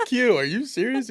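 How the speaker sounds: high, laughing disbelief. Retold or imitated. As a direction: laugh out the question in mock shock. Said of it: "I'm like".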